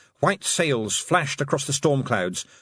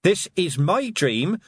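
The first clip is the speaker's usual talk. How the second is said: yelled; 10 semitones higher than usual. Acted. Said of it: "yelled at the towering whale".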